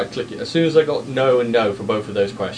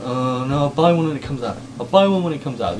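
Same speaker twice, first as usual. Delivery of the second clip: mock brush-off, higher pitched; imitating dismissive people; 4 semitones higher than usual. Quoting people who wouldn't pre-order, in a mock dismissive voice. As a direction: put on other people's offhand refusal, voice lifted. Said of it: "people were like".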